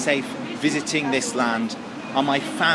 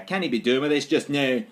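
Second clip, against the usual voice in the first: broad Scottish phrase, a touch louder; Scottish accent; 3 semitones higher, 4 dB louder than usual. Pretend. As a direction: say it like a grumpy Scot. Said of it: "means piss off".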